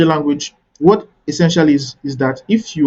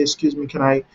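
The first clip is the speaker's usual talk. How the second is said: softer, courteous interjection; polite request; 5 dB quieter than usual. Shown as a demonstration. Networker approaching two people mid-conversation, politely. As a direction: politely ask to cut in. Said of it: "just politely say".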